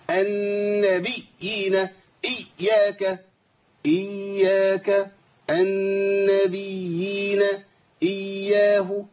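النبيين and إياه with a gentle ي; effortless ya. Shown as a demonstration. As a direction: recite النبيين إياه without force. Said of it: "من غير مجهود خالص".

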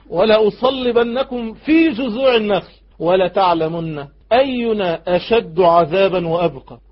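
a ruler menacing, every word drawn out; Pharaoh's threat. Acted. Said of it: "يقول لهم ايه". (تلاوة تهديد بصوت مرتفع متمهل)

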